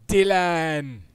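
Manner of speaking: loud high shout of the name; yelling a name. Real, not acted. Streamer yelling for Dylan across the house. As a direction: bellow across the room. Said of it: "Sorry if I'm yelling".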